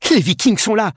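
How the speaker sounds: high-pitched cry of alarm; urgent cry. A narrator's reading. Edgar warning the monks of raiders, crying out. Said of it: "cria Edgar".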